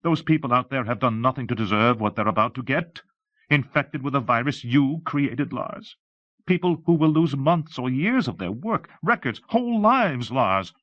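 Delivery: impassioned plea rising in pitch. Acted. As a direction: climb towards a desperate cry. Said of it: "Her voice was rising".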